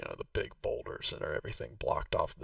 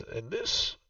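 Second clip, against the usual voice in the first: put-on a raised, slower voice for the old woman Vaku; game master voicing Vaku, noticeably higher; Vaku's voice; 6 semitones higher, slower than usual. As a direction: play the proud host showing her old home. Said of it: "She says".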